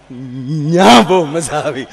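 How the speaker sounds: drawn-out, slow mimicking repeat; slow mocking echo. Comedian mimicking a friend's boast, slow and teasing. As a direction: echo his words back slowly, teasing. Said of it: "મને કે ન્યા doctor નહોતા".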